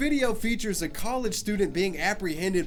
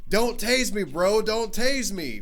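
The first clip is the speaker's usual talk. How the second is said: quoting the meme; 4 semitones higher, 4 dB louder, slower than usual. Retold or imitated. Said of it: "phrase slash meme".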